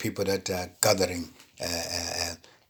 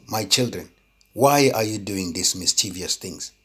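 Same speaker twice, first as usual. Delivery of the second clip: gentle father. Retold or imitated. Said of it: "sit them down and try and ask".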